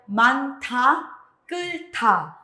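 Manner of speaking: slow "manta, kulta", syllable by syllable; pronunciation demo. Shown as a demonstration. Teacher gives examples after hiot, pronunciation demo. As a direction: model "manta, kulta" with aspirated "ta". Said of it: "suena como ta".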